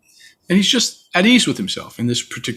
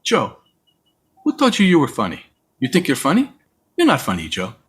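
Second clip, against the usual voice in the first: serious mother; 2 semitones higher than usual. Retold or imitated. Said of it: "looks at me very seriously and goes".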